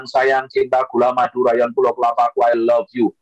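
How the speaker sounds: low, even-toned pet names; mock sweet talk. Wife coaxing a grumpy husband, mock sweet talk.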